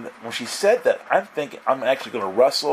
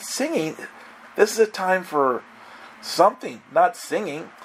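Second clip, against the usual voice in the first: higher-pitched mild disbelief; incredulous; 5 semitones higher than usual. Retold or imitated. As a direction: question it as if it's absurd, pitched up. Disbelief at girl's offer to sing.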